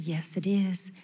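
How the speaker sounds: breathy whispered reply. Retold or imitated. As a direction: whisper the answer hesitantly. Answering a stranger's phone call.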